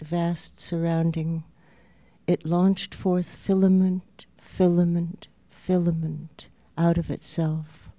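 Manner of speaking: measured poem reading with long pauses; poetry reading. Acted. Poet reads a Walt Whitman poem to an audience, measured recital. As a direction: set each phrase apart, leaning into the openings.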